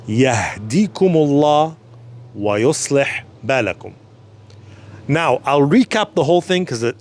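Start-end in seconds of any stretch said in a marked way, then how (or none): 0.1-3.9 Yahdikumullah wa yuslih balakum drawn out slowly, every syllable clear; very deliberate Yahdikumullah wa yuslih balakum; even slower. Shown as a demonstration. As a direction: stretch the dua for beginners. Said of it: "even slower".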